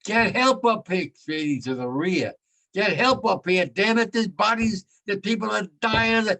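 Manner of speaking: frustrated shout to the rear for help; captain screaming. Retold or imitated. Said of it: "he was screaming".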